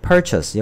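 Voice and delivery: purchase said slowly and clearly for students; purchase modeled. Shown as a demonstration. Teacher models purchase for the class, slow and clear. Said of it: "철자 이렇게 잘 써야 되죠".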